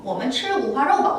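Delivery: a bit slow, even. Shown as a demonstration. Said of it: "어". (다시 조금 천천히)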